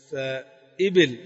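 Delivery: فإبل stretched out very slowly, each vowel held; drawn-out teaching pronunciation; slow demo word. Shown as a demonstration. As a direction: spell out فإبل slowly for students. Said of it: "كسرتان".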